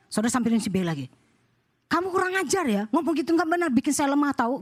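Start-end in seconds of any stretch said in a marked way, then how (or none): 1.9-4.6 tag. Acted. Scolding the next suspected gossiper.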